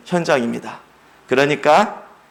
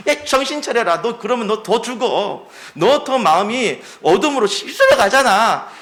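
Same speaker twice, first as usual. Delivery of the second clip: higher, half-playful scolding; scolding rebuke; 5 semitones higher than usual. Acted. The Lord scolding a fallen believer, higher affectionate rebuke. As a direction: shake someone awake with a fond scold.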